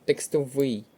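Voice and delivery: Текстовий stressed on final ВИЙ; stress on third syllable. Shown as a demonstration. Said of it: "наголос на третій склад".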